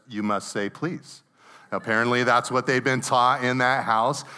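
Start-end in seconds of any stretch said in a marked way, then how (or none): 0.1-1.2 imitating a sober, businesslike older sister; a lightly put-on prim correction, softening on the last word; sober, professional. Older sister correcting little sister over a crayon, mock-sober and professional. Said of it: "soberly and professionally looks up and says".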